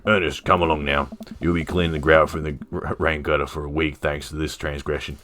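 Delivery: lightly voiced Australian dad; Robert, Aussie accent. Robert punishes Ernest for this transgression, light Aussie accent. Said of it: "He was Aussie, right?".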